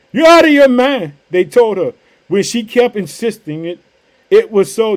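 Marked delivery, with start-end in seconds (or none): 0.1-1.1 high-pitched disbelief; incredulous exclamation. Acted. Church answering the servant girl, incredulous exclamation. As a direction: exclaim it as if she's crazy.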